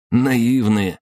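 a touch of derision; amused scoff. A narrator's reading. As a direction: scoff at their naivety. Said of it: "хмыкнул змей".

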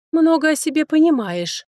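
scoffing. A narrator's reading. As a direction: scoff it off contemptuously. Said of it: "фыркнула Лердес".

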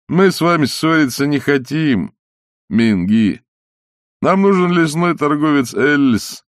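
brisk Burmese villager, hardly cross; brisk, not very angry. A narrator's reading. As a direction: speak up briskly, barely angry, voice lightly changed. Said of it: "Парень заговорил бойко и не особенно сердито". (бойко и не особенно сердито)

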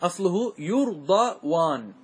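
يرضوان stretched slowly; slow, drawn out. Shown as a demonstration. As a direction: lay out the original form slowly. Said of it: "إيش أصله". (نطق بطيء للأصل)

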